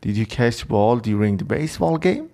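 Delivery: slow repeat with a rising question tune; teacher repeats the example. Shown as a demonstration. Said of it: "حالا ببینید گفته did you".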